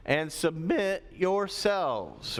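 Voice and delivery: slow, with a brief real crack; slow phrase with an unsteady break. Real, not acted. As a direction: let the voice slip as you draw it out. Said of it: "Sorry, my voice is changing".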